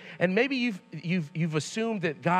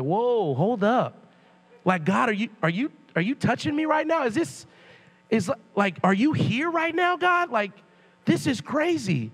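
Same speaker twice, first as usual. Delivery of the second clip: rising, higher-pitched astonishment; awed disbelief at a strange touch; amazed whoa; 4 semitones higher than usual. Retold or imitated. Sensing God's touch, amazed.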